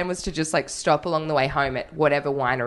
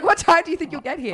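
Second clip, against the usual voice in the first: higher, louder hammed-up American accent; 11 semitones higher, 4 dB louder than usual. Repeating the owner's question, hammed-up American accent. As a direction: ham up the old American guy. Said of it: "He was like".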